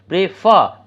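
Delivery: প্রেফার with প্রে barely said, ফার high; প্রেফার, strong falling ফার; stress on last syllable. Shown as a demonstration. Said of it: "একটু silently যেন চলে গেলো".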